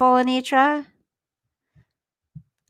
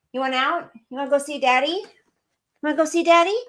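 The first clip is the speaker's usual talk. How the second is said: higher sing-song question to the dog; pet talk; 4 semitones higher, much faster than usual. Real, not acted. Streamer asking the dog if he wants to see Daddy, sing-song pet talk. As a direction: ask the dog sweetly.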